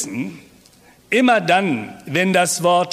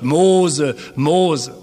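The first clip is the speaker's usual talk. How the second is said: voice of God; 2 semitones lower than usual. Acted. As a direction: call him from the burning bush. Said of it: "die Stimme Gottes hört".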